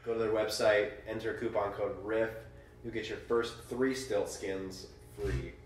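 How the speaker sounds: ad read. Acted. Mock sponsor read.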